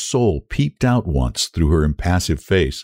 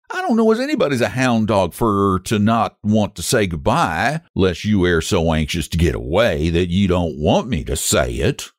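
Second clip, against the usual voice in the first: martyr's voice. Acted. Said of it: "said Ramsey in a martyr's voice".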